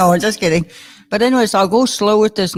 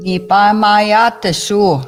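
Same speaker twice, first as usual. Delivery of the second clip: slow careful word. Shown as a demonstration. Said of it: "For animate".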